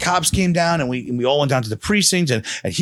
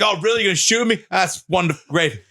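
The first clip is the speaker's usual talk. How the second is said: sarcastic; 2 semitones higher than usual. Retold or imitated. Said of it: "You took the piss out of him".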